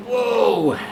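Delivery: high, loud startled cry; surprised whoa. Real, not acted. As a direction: caught off guard. Sudden moment in race.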